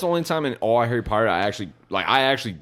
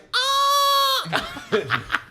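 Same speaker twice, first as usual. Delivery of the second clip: high sustained mock screech; imitated movie noise. Imitating the edited movie for friends, high drawn-out noise. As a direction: hold a long, high imitation shriek.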